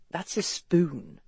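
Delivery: slow, dry deadpan. A narrator's reading. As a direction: point it out slowly and drily. West deadpan about the utensil.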